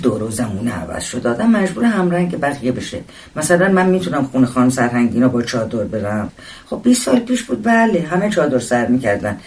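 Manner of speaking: lively, lightly voiced woman defending herself; opinionated woman passenger. Wife justifying herself to her husband, lightly voiced and animated. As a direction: lightly play a talkative wife arguing back. Narrator plays the woman arguing.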